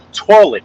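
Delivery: TOILET high and drawn out, Queens style; Queens pronunciation. Shown as a demonstration. Showing how a Queens person says it, Queens pronunciation. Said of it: "listen to a Queens person say it".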